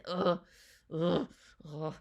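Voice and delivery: repeated short ughs; string of wordless ughs; wordless groan. Real, not acted. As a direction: groan in overwhelmed admiration. Lost for words over the visuals.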